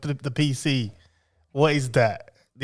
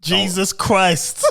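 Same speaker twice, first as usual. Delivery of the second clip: slow exasperated; 3 semitones higher, much slower than usual. Real, not acted. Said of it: "exasperated at friend".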